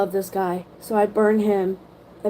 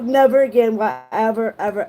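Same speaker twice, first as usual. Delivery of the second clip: ordinary delivery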